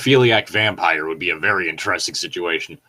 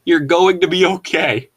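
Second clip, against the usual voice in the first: voicing Edward; 7 semitones higher, 4 dB louder than usual. Reading Edward's comforting line.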